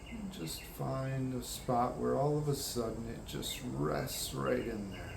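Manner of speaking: soft, easy meditation guidance; guided meditation. Acted. Guiding listeners to rest in one spot, calm meditation voice. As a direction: settle listeners gently into a resting focus.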